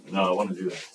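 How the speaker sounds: low, soft dismissive answer; bored refusal. Acted. Teen in church youth group refusing, bored. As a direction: shoot it down with no energy.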